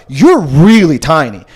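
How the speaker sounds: slow, drawn-out marvelling at someone's size; stretched-out, wondering inner thought; awed second thought. Retold or imitated. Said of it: "ever with that tone look".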